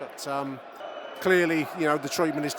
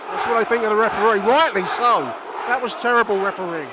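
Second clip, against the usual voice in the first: loud, higher commentary, furious at the referee; outraged play-by-play; 7 semitones higher, 8 dB louder than usual. Real, not acted. Fan commentator fuming to listeners about poor refereeing, loud and outraged. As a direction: rage at the ref while calling the game.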